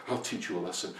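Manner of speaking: low, soft muttered threat; muttering. Acted. Farmer mutters while digging, low quiet grumble. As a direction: grumble it under your breath. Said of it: "muttering to himself".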